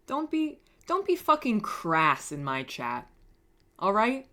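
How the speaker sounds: high, loud mock telling-off; mock scolding. Mock-scolds someone in the chat.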